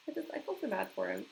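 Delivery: tearful pity. Real, not acted. Pitying the character.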